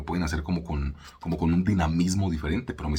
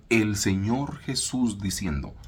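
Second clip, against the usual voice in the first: slow reverent; 3 semitones higher, much slower than usual. Shown as a demonstration. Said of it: "Y yo le digo".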